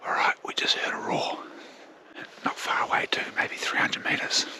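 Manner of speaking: hushed hunter's whisper. Real, not acted. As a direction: whisper so the deer won't hear. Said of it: "hunting near stags, whispering".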